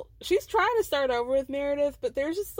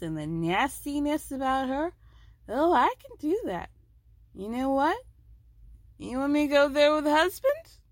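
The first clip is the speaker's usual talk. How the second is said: mock Eastern European accent imitation; odd foreign accent; 3 semitones higher than usual. Meredith threatening Lisa in a put-on accent. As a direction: drift into a vague foreign accent. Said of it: "journey of accents".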